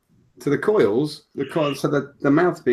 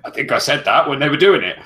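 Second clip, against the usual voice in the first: mock wife voice; 2 semitones higher, 7 dB louder than usual. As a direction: whine it out like a nagging wife. Wife voiced in retold argument.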